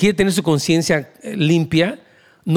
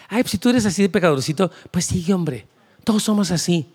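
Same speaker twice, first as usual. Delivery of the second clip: mock permissive voice. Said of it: "la gracia no es como que".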